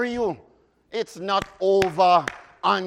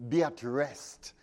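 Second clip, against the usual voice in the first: hushed command; 5 semitones lower, 8 dB quieter, slower than usual. Acted. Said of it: "the final interpretation says".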